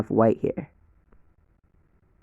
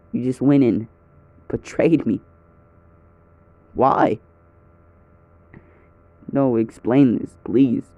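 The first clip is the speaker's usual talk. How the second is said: raised, hurt and accusing; angry confrontation. Acted. Deku confronting Liz about cheating, hurt and angry.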